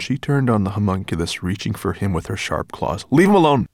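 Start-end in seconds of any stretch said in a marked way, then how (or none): 3.1-3.7 high, loud protective order; protective command. Acted. Ben pushing Sorrel away, loud protective command. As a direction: shield the little one. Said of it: "said Ben, pushing her away".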